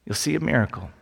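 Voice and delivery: Jesus calmly reassuring Mary and Martha. Retold or imitated. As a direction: gently comfort the sisters. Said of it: "Jesus just looks calmly at them".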